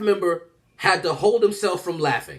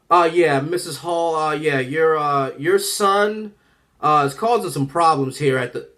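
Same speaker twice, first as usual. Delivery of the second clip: principal on phone. Retold or imitated. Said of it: "My principal already on the phone like this".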